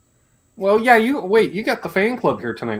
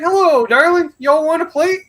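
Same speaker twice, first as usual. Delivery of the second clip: Southern lady voice; 11 semitones higher, 4 dB louder than usual. Retold or imitated. Southern woman offering food.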